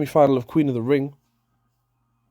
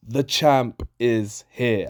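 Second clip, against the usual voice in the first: Cena catchphrase; much slower than usual. Retold or imitated. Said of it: "an O G Cena catchphrase".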